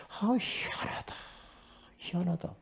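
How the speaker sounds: 높게 시작하는 숨소리 속삭임, 천천히; 혼자 감탄하며 속삭이기; wondering whisper. Retold or imitated. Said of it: "지금 제가 그러고 있는 거예요". (놀라움을 속삭이는 혼잣말)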